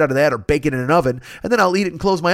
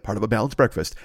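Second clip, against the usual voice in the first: ad announcer; 7 semitones lower, 5 dB quieter than usual. Retold or imitated. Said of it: "they'd be like".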